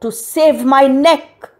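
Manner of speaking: high, loud alarm; panicked shout. A narrator's reading. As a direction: cry out in a hurry to escape. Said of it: "She shouted".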